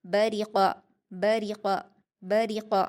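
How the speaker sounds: बरिक़ा with a full, heavy क़ from the throat; thin ब and र, then a heavy क़ in बरिक़ा; heavy qaf. Shown as a demonstration. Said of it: "लेकिन इसको आप भारी पढ़ेंगे".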